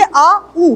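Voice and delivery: आ then ऊ said apart; आ and ऊ sounded one by one; separate vowels. Shown as a demonstration. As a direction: split the glide into आ and ऊ. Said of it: "आ और ऊ दो sound".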